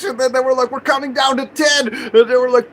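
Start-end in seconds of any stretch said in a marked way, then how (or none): 0.7-1.9 high, raised-voice threat; urgent imitated police announcement; retold police warning. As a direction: act out cops shouting a warning.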